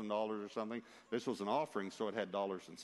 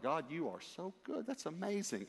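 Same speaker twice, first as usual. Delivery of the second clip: amazed, pitched-up praise; awed praise; 7 semitones higher than usual. Retold or imitated. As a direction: marvel gratefully at God. Retold awed thought to God.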